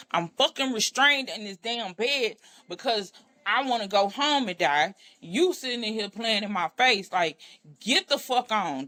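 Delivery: imitating her own angry outburst at him; retold furious yell. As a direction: throw him out in a retold rage. Restrained, yelling at boyfriend.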